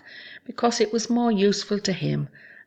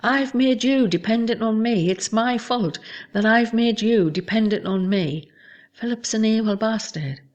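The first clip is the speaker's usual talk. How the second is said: higher, louder mocking rant; retelling a partner's rant, higher and louder with mockery; imitated rant; 5 semitones higher, 3 dB louder than usual. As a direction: mimic his sarcastic ranting. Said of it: "he continues to rant".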